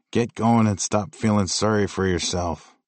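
gruff Cape Breton bark; Cape Breton accent. Retold or imitated. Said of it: "bark in his thick Cape Breton accent".

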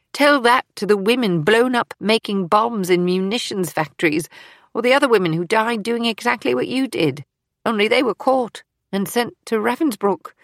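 heated, righteous scolding; indignant rebuke. Acted. Fields rebukes Eleanor with the dead.

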